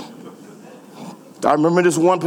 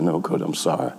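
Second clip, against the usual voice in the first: meek apology; 12 semitones lower, 7 dB quieter than usual. Retold or imitated. Apologising to coach.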